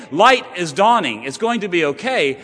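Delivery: preacher ringing out good news; rousing proclamation. Acted. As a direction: announce the dawn with joy.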